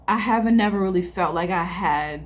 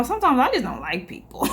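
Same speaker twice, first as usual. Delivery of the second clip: laughing; 4 semitones higher, faster than usual. Real, not acted. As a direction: laugh through the line, then a high giggle. Laughing at own confession.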